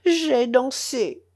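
slow sobbed admission; sobbing. Acted. The boy confessing to the uncle, slow and sobbing. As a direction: drag it out through sobs. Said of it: "sanglota Falalei".

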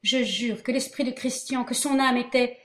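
solemn. Acted. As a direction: swear it with weight.

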